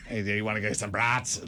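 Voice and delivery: rough attempt at a Chicago accent; unsure, joking Chicago accent; imitated Chicago accent. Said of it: "Was that your Chicago accent?".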